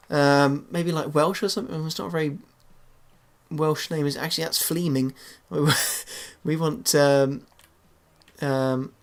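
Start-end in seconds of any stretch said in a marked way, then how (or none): 4.6-5.1 Fleming said with a long ee, "FLEE-ming"; mispronounced Fleming. Shown as a demonstration. Player reading back a misspelt manager name, mispronounced as FLEE-ming. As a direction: stretch the first vowel of Fleming into "flee". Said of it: "not, not Fleming".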